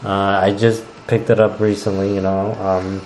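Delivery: muffled speech through hands; talking into cupped hands; face in hands. Real, not acted. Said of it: "Stop talking into your hands".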